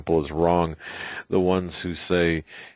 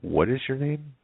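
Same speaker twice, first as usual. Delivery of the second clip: much higher, pressing question; raised-pitch, urgent asking; insistent; 10 semitones higher than usual. Acted. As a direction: press for the answer with pitch climbing. Girl asks a third time.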